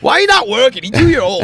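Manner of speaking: high, hammed-up Chinese-accented English; mock Chinese accent. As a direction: scold in a put-on Chinese accent. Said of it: "I read that in your Chinese accent".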